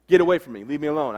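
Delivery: wounded soldier shouting at doctors; fighting them off. Retold or imitated. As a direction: shove the words at the doctors.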